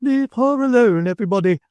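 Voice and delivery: high, loud energetic cry. A narrator's reading. Mrs Sparsit holding back the crowd, loud energetic cry. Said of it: "cried Missus Sparsit with great energy".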